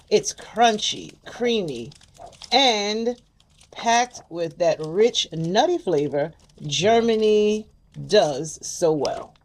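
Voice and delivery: slow, careful read of package text; reading product blurb. Acted. Reads snack box description aloud.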